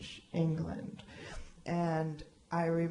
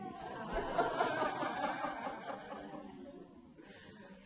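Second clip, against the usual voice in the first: long laugh; 9 semitones higher, 5 dB quieter than usual. Real, not acted. Laughing at Aurelia's reply.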